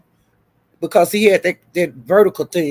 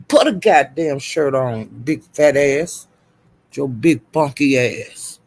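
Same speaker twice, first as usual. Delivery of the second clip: slightly deeper, slow mock scolding; imitated husky man's voice; 5 semitones lower, slower than usual. Acting out his rant at a shirtless man, imitated deep voice. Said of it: "talking like that with that husky voice".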